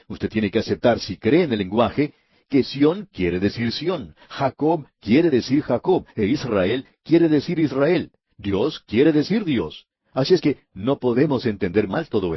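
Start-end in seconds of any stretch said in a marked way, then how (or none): 2.5-9.9 slow, each phrase stressed and raised; slow insistent emphasis. Real, not acted. Preacher to radio listeners, insisting Israel means Israel: slow, raised emphasis. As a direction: hammer home every name, slowly and deliberately.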